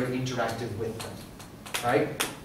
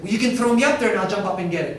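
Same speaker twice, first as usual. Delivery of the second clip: put-on high, loud eager child; eager kid voice; 5 semitones higher, 6 dB louder, faster than usual. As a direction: pitch it up like a keen kid. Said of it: "one said".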